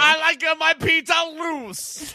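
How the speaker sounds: Louie. Acted. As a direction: play a goofy New York pizza guy. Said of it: "my voice is so much different than Louie".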